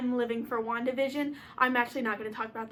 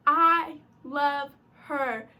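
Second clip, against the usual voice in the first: drawn-out, louder declaration of love; gushing; 2 semitones higher, 5 dB louder, much slower than usual. Real, not acted. Fan declaring love for the Scarlet Witch, gushing. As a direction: stretch each word out adoringly. Gushing over favorite heroine.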